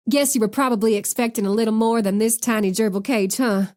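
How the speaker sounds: light Southern twang; Southern accent. Acted. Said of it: "thick Southern accent".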